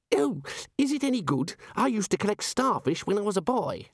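put-on high, guileless young student; eager young wizard. A narrator's reading. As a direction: play Ponder as keen and naive. Ponder voiced in reading.

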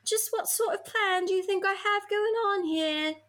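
high, put-on questioning voice; Harry's character voice. Harry questioning the professor in amazement, high character voice. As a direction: play an amazed Harry, pitched well up.

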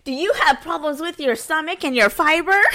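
bright, high sales pitch voice; customer service voice. Acted. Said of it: "she used that customer service voice".

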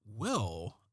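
lightly done low-key TV detective murmur; a hint of a brooding crime-show cop; understated TV detective read; David Caruso voice. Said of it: "I'm gonna use a David Caruso voice".

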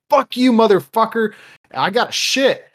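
high, loud desperate yell; yelling at the manager over an urgent need; frantic yell. Retold or imitated. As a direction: blurt it out in a panic.

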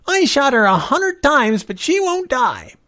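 put-on very high, slow, loud whine of a child; yelling little boy. A narrator's reading. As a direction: loudly protest like a small boy at play. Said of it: "he yelled".

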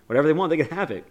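mock-urgent wife giving in; emphatic plea. Retold wife's plea to detective.

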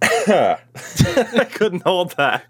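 after choking on water; laughing after a coughing fit. Real, not acted. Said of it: "the water went down the wrong way".

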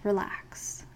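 breathy whispered relax; whispering. Acted. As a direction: let it out as a whisper. Meditation settling cue.

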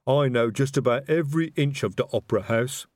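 troll speaking airily; airy troll voice. A narrator's reading. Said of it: "said Detritus airily".

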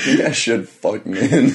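slow joke broken by laughter; laughing. Real, not acted. Teasing her co-host about sleeping alone, slow and laughing. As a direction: drag it out while cracking up.

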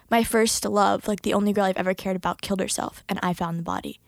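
low, grave retold confession; dead serious. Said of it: "he was so serious".

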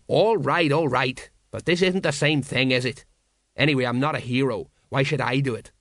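portly sergeant wriggling out of duty; defensive sergeant. Acted. Colon protesting.

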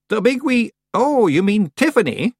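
high-pitched witch, catching on; puzzled witch. Acted. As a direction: echo it, then realise who is meant. Witch works out who is meant.

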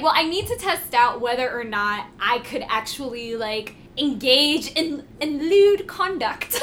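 put-on British accent. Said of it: "was that a good British accent?".

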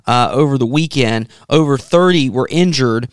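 measured, serious news-reading delivery. Real, not acted. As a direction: read the report evenly, like a radio bulletin.

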